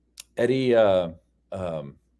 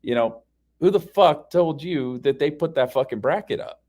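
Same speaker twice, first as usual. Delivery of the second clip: retold exasperated challenge, pitched up; irritated, higher-pitched questioning; frustrated demand; 4 semitones higher than usual. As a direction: press them for a source, fed up. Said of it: "I'm, like, frustrated".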